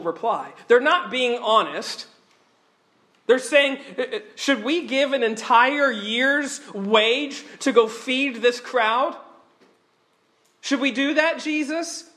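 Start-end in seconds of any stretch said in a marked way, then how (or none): 4.0-12.1 a touch of mock sarcasm, slightly raised; lightly voiced doubtful, mocking question; sarcastic disciples. Disciples scoff at Jesus' request, mildly sarcastic. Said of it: "sarcastic cynicism".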